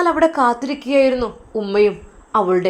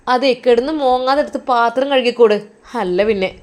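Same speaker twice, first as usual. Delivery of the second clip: contemptuous scold; 3 semitones higher, 6 dB louder than usual. Acted. Sister-in-law mocks crying.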